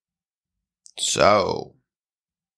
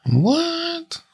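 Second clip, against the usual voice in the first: squeaky high what. Pretend. Mock surprise at own joke.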